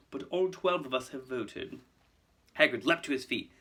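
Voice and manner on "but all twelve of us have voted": slow, silky finality; nasty smile. Acted. Malfoy announcing the governors' vote, nastily smug. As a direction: deliver the blow smugly. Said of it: "with a nasty smile".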